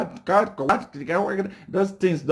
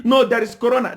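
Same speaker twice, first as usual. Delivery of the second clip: mocking opposition excuse; 3 semitones higher, faster than usual. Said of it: "you are saying".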